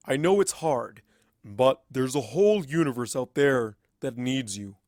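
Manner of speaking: lightly voiced old mentor, firm encouragement; rally her gently but firmly; encouraging mentor. Starswirl encouraging Twilight, a firm hint of mentor.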